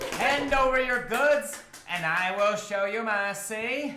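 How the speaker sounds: booming put-on voice. As kobolds pop up on both sides of the path, the narrator gives Gerslick's booming voice. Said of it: "you hear a booming voice".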